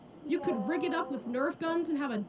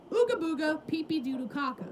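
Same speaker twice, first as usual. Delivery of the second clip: caveman voice. Acted. Caveman brain speaks.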